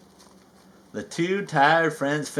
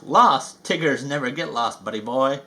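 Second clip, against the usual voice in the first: cheerful Tigger. Acted. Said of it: "Tigger cheerfully replied".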